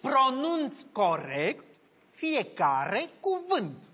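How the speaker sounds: very slow "pronunț corect fiecare cuvânt", word by word; over-articulate every word with gaps between; exaggerated careful diction. Shown as a demonstration. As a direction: model each word for a struggling patient.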